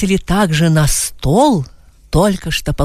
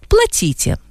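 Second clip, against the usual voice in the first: higher curt order; 13 semitones higher than usual. A narrator's reading. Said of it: "сказала первая".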